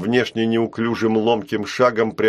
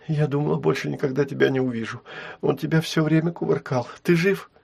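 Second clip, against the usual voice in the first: sobbing; 5 semitones higher, faster than usual. Acted. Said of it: "всхлипывая, спрашивала она".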